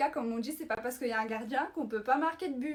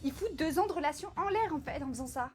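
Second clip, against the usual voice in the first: indignée; 5 semitones higher than usual. Acted. Découvre la trahison en vidéo.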